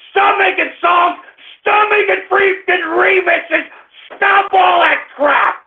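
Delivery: angry demand. Real, not acted. Radio host telling pranksters to stop, angry demand. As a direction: lay down the law, exasperated.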